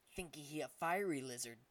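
broken-English ape voice, taunting; a bully ape jeering at a lizard; big ape. Acted. Big ape mocking the helpless dragon, in a taunting ape voice. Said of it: "one of the larger apes said".

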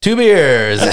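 laughing retold reply; laughing order. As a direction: bark the order while cracking up. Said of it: "And I go".

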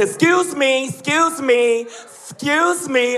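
"excuse me" with a long hissed S; lisping excuse me. Retold or imitated. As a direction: drag out the S in "excuse me", slowing. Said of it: "Ain't that many S's in excuse me".

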